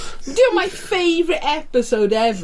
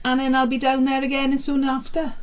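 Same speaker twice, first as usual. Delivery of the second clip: put-on Welsh accent. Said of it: "I can't do a Welsh accent".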